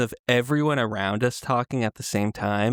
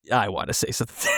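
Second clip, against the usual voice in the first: eager outburst; 3 semitones lower, faster than usual. Retold or imitated. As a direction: blurt it out fast, half shouting. Eager reply, shout heard.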